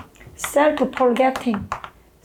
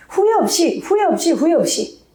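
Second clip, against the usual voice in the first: rallying cry; 4 semitones higher than usual. Retold or imitated. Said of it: "뭐라고 합니까?".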